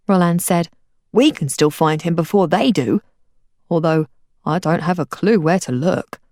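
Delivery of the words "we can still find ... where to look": lightly voiced lower boy, musing; Roland's voice. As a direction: Roland thinking aloud, unsure. Roland's voice, held by narrator.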